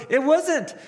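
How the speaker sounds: very high, loud reveal; imitating an exasperated outburst; exclaimed punchline. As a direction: deliver the letdown at full pitch. Acted punchline of Cruz's story.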